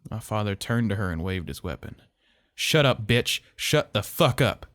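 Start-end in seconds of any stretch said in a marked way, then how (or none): 2.5-4.7 loud furious shout, the last words slowed; angry yell. A narrator's reading. Father yelling at Miss Lewis to shut up, furious shout. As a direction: roar it like an angry god. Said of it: "he yelled".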